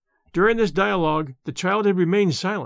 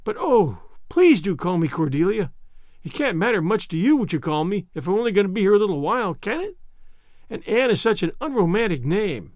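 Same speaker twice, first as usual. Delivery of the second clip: a hint of a heartbroken child winding up to cry; distraught orphan girl; 2 semitones higher than usual. Anne pleading for a name.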